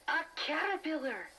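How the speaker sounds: the penny drops; gasping realization. Acted. Teddy realizes Karen's secret, surprised gasp.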